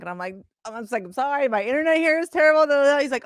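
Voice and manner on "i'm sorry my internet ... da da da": fake excuse. Faking bad internet to Dana.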